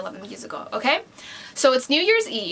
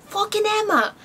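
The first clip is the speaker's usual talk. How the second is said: much higher, disgusted burst at the name; exasperated outburst; 10 semitones higher than usual. Real, not acted. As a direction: spit out the rival's name in disgust. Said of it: "I don't know why I said that".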